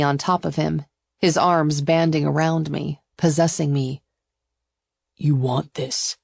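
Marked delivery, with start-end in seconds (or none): 5.2-6.2 slow, firm persuasion; insistent. A narrator's reading. Suitor holds her and persuades, slow and insistent. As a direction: insist slowly and deliberately. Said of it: "he insisted".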